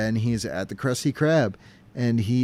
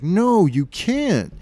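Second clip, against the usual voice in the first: mock alarm; 8 semitones higher, 4 dB louder, much slower than usual. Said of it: "And he's like".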